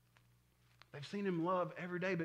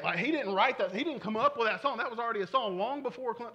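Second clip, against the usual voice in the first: loud, raised-pitch imitated know-it-all; loud mock correction; 5 semitones higher, 6 dB louder than usual. Someone correcting the preacher about a remake, loud and insistent. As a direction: pile on the correction, loudly and insistently. Acts out critic debunking the song.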